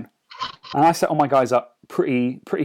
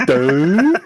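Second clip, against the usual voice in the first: louder, dopey troll grunt of doo; dim troll noise; 7 dB louder than usual. Retold or imitated. Player voicing his clueless troll losing focus, dopey louder grunt. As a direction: play the troll going blank with a dull doo. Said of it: "So the troll just goes".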